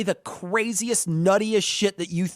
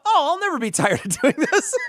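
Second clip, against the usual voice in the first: eager; 9 semitones higher, 3 dB louder than usual. Retold or imitated. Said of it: "And I thought".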